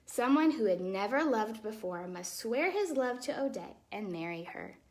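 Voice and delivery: put-on lively, expressive read-aloud for children; storybook reading. A narrator's reading. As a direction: tell the tale like a bedtime story.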